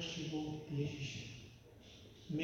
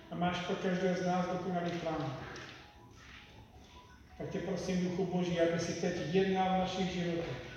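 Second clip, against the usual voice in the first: fervent prayer; 2 semitones higher than usual. Acted. Leads a prayer. (modlitba stoupající k hlasité prosbě)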